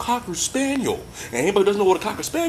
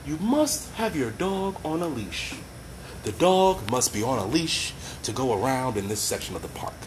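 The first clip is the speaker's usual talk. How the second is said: lightly formal, measured sign reading; reading a posted rule; 4 semitones lower, 4 dB quieter than usual. Retold or imitated. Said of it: "that it says".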